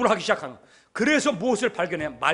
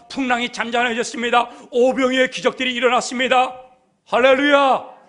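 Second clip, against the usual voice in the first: loud, rhythmic preaching that builds; impassioned preaching; 3 semitones higher, 6 dB louder than usual. Acted. Preacher listing Jesus' miracles to the congregation, loud and rising. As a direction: proclaim each miracle louder, up to a shout.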